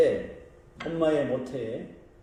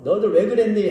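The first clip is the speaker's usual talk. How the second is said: louder, higher pretend rebuke; mock interrogation; 6 semitones higher, 7 dB louder, faster than usual. Imagined Jesus questioning the disciples who betrayed him, mock-scolding. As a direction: playfully demand an explanation. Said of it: "한 번도 추궁하지 않으셨어요".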